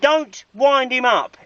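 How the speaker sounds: slow, emphatic telling-off; stern scolding. Real, not acted. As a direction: warn them firmly, drawing out each word. Scolds the helpers for winding up.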